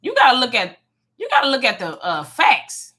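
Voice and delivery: a hint of a blunt therapist laying out facts; mock therapist telling her straight; imitating therapist, straight up. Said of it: "My therapist told me straight up. She said".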